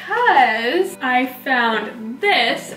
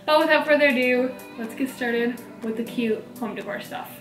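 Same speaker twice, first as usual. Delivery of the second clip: slight lisp around a dental tray; lisp from mouth tray. Real, not acted. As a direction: speak with a tray over the teeth. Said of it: "teeth whitening tray in my mouth right now".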